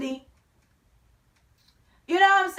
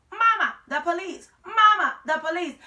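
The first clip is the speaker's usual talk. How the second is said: parrot shouting; 3 semitones higher, 3 dB louder than usual. Retold or imitated. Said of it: "the bird actually started shouting".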